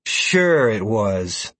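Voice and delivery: slow, sarcastic grumble; grumpy. Acted. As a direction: grumble it, unconvinced. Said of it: "Sierra commented grumpily".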